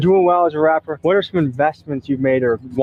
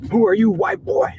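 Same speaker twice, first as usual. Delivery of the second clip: lightly acted challenge, pitched higher; mock challenge rising at the end; suspicious local challenge; 6 semitones higher than usual. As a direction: imitate a local sizing up a stranger. Voices suspicious locals challenging visitors.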